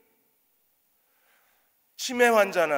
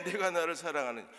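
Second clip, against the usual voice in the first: softer solemn question; 5 dB quieter than usual. Acted. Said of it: "주께서 세 번째".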